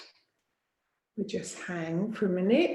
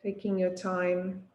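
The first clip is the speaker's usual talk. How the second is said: guided relaxation. Acted. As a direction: ease them into rest, pausing between phrases. Leads yoga nidra settling-in.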